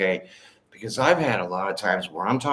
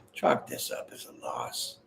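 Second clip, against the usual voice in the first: soft, low, whispered repeat of Chalk this up as a loss; 13 semitones lower, 10 dB quieter than usual. Shown as a demonstration. Reader repeats the card's message for the viewer in a whisper. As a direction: breathe the line out as a secret aside.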